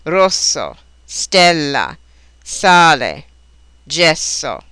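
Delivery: careful one-by-one Italian examples; standard S. Shown as a demonstration. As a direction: clear hissed S in each word. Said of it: "given the standard S pronunciation".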